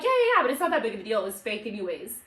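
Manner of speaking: fast, brushing-it-off casual; mock nonchalant. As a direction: rattle it off like it's no big deal. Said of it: "you play this shit so nonchalant".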